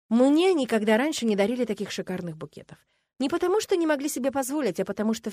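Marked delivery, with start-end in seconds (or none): none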